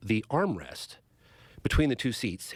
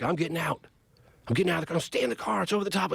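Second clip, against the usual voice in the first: put-on higher, panicky retelling of a scared kid; mild mock panic in a higher voice; 6 semitones higher, faster than usual. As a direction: voice the kid's fear, pitched up. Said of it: "they're very scared".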